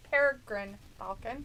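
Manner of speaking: "Peregrine falcon" said carefully as a correct model; "Peregrine" clearly in three syllables; careful pronunciation. Shown as a demonstration. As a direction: sound out "Peregrine falcon" for a partner. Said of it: "want me to try for ya".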